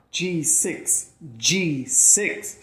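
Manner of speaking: rising, eager G six; excited repeat. Acted. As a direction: savor the prize name with delight. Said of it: "she repeats".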